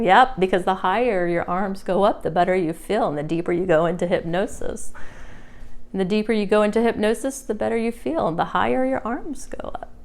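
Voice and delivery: soothing deepening suggestion; smooth, rising hypnotic patter. Acted.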